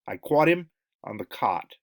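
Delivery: New York "caught" with a rounded "aw"; New York accent. Shown as a demonstration. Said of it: "Or New York".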